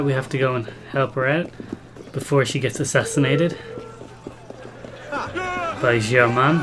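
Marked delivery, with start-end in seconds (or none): 5.1-6.6 put-on French accent. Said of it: "I was trying to do the French accent".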